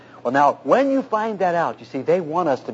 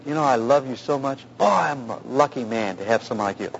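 lower-voiced, sincere endearment; tender affection; 4 semitones lower, 4 dB quieter than usual. Shown as a demonstration. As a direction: model a husband gently appreciating his wife. Demonstrates tender words to a wife.

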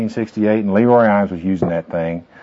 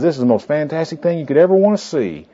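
high, gushing mock sales pitch; big show of enthusiasm; 6 semitones higher than usual. Man selling a bystander on a reading calendar, put-on excitement. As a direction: sell it hard, imitating an enthusiast. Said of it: "he put on a big show".

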